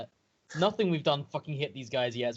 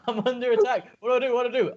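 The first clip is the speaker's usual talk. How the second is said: lightly voiced, higher mock panic; a hint of the creature's frightened squeal; mocking Mapido; 7 semitones higher, 5 dB louder, faster than usual. Player teasing the game master's panicked character, mild mock squeal.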